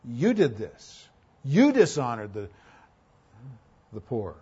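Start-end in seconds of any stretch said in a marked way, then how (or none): 0.0-1.1 slow, leaning hard on "You"; stress on YOU. Shown as a demonstration. Preacher shows congregation the emphasized Greek pronoun, stress on "You". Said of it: "the word you is emphasized". 1.4-2.5 "You" punched at the start; stress on YOU. Shown as a demonstration. Preacher rereads the verse to show its emphasis, stress on "You". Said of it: "the word you is emphasized".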